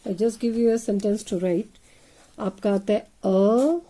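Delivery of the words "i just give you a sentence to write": slow dictation. Shown as a demonstration.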